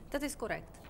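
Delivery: put-on Russian-accented job applicant; foreign accent. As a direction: answer carefully in a Russian accent. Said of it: "That's a queer accent you have there".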